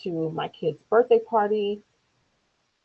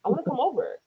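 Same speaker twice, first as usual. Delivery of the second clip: put-on young son's voice; 3 semitones higher than usual. Son calling his grandpa, lightly voiced child. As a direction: imitate a child chatting on the phone. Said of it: "my son gets on the phone".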